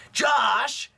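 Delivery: high yelled call of the name; calling Josh. Retold or imitated. Kid friend shouting for Josh, high call. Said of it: "He talked like that".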